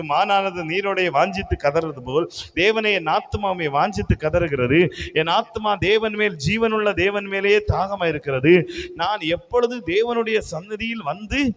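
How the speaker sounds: declaimed psalm verses, building in pitch; steady, proclaimed Bible reading; scripture reading. Acted. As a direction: read the verse out to the congregation. Reads the psalm aloud.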